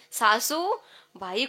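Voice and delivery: "सासू बाई" stretched, broken in two; drawn out. Shown as a demonstration. Kirtankar shows women how long this title takes, drawn out. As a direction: linger on "सासू", pause, then "बाई". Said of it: "खूप वेळ लागतो".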